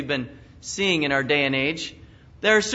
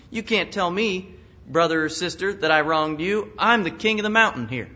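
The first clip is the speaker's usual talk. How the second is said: mock southern drawl; 3 semitones higher than usual. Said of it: "somehow you throw in that southern drawl".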